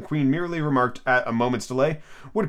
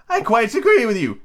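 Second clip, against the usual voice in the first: Duchess voice; 10 semitones higher, 4 dB louder than usual. Acted. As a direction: hold the Duchess's high sing-song. Duchess voiced in read story.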